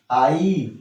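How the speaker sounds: आई drawn out, gliding from आ to ई; diphthong demo. Shown as a demonstration. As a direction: sound out आई alone as one long glide. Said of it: "इसका आई sound है". (आई को आ से ई तक खींचकर)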